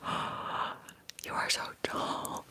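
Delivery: slow, drawn-out whispered awe; mock astonishment. Imitating elderly French painters amazed by her height, whispered astonishment. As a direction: imitate amazed onlookers, stretching the words in a whisper. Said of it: "they acted like I was a giant".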